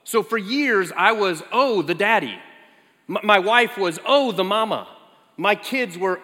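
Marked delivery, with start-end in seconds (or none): 1.5-2.4 a hint of a small child naming her dad; imitating a toddler. Father mimicking his little daughter, lightly childlike. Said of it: "she used to start every name with". 4.1-4.9 a hint of a small child naming her dad; imitating a toddler. Father mimicking his little daughter, lightly childlike. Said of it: "she used to start every name with".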